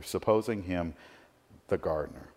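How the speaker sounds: quiet reflective repeat. Shown as a demonstration. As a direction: let "supposing him the gardener" fade into a thoughtful hush. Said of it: "so much packed into this little phrase".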